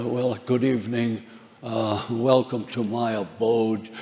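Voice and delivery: a hint of a Karloff-style horror host, slow; lightly spooky host greeting, slowed down. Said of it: "I'm gonna do that".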